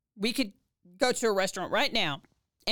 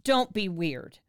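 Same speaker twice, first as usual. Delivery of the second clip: slow pleading; much slower than usual. Retold or imitated. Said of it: "I looked at him and I said".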